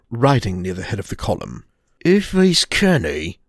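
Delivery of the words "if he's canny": grumbled Geordie. Acted.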